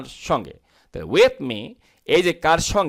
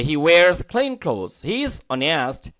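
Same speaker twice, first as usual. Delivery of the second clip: slow, careful dictation pace; teacher slowly models the English sentence; very slow model reading; much slower than usual. Shown as a demonstration. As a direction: read it slowly so students catch every sound. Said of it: "American ব্রি-, উচ্চারণ অনেস্ট".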